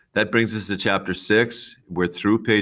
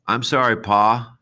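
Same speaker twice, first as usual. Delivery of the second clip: put-on higher, louder young girl apologising; apologetic girl voice; 6 semitones higher, 6 dB louder than usual. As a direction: voice a flustered girl saying sorry. Girl voiced in read-aloud.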